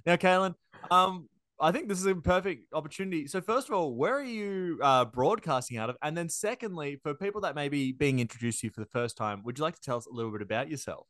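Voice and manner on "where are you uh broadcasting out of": usual speaking voice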